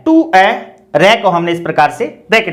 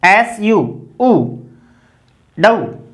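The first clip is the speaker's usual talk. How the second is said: sounding out; much slower than usual. Shown as a demonstration. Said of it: "sounds out pseudo slowly".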